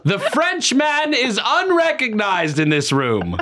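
hammed-up old-world assembly speech; mock pompous nobleman. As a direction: yield the floor like a grand old parliamentarian. Acting formal assembly speaker.

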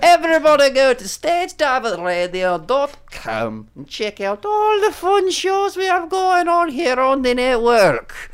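high, eager plug read; over anxious. Real, not acted. Host reading plugs, sounding over-anxious. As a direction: gush about the network a bit too keenly. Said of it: "I sounded really over anxious there".

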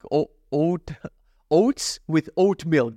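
slow, halting, tripping over oat milk; careful, tongue-tied delivery; stumbling over words. Real, not acted. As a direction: feel your way through the tongue-twister. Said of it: "This is so hard to say".

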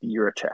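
Jiricek said as YEER-uh-check; Jiricek with "y" first and "check" last; corrected pronunciation. Shown as a demonstration. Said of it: "I've heard it pronounced".

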